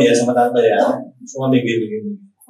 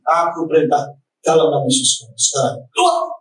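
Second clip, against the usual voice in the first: commanding exorcism; 3 semitones higher than usual. Retold or imitated. Pastor casting out demon.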